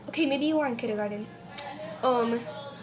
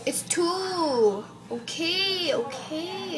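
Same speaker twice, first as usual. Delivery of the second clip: higher, drawn-out mock exasperation; exasperated teacher; 4 semitones higher, much slower than usual. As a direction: stretch it out in fed-up teacher mode.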